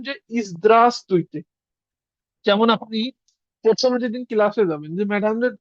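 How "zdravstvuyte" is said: a measured "ইজদ্রাস্তুইতে" with a falling end; formal greeting demo. Shown as a demonstration. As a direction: say "ইজদ্রাস্তুইতে" slowly, politely. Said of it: "তখন আপনি কি বলবেন?".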